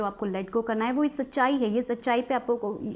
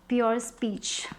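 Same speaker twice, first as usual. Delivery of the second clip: whispered; slower than usual. Real, not acted. Tarot reader murmurs the card name to herself, whispered. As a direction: breathe the card name under your breath.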